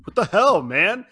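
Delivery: loud, high what the hell; indignant yell. Retold or imitated. Peter yelling at Mark on the roof, shocked. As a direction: shout it in shock. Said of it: "Peter's like".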